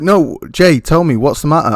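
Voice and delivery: light imitation of his wife asking; voicing wife. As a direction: plead like a concerned wife. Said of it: "she was like".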